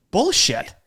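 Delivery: loud, high scornful bullshit; emphatic dismissal. Real, not acted. The host shouting down the listeners' excuse, loud. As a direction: call it out hard and loud.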